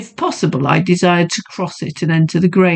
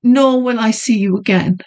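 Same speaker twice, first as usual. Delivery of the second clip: high, defiant lady; defiant young woman; 6 semitones higher than usual. Acted. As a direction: refuse him flatly. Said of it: "with sudden defiance".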